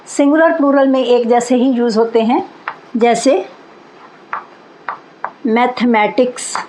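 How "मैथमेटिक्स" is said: मैथमेटिक्स slow, ending in clear ks; keep the s. Shown as a demonstration. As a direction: say मैथमेटिक्स with the final s. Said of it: "इसको मैथमेटिक नहीं बोलेंगे". (मैथमेटिक्स अंत में एस के साथ)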